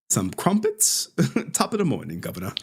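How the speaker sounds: playful British-accent imitation; mock British accent. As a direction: put on a joking British accent. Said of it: "I love that accent".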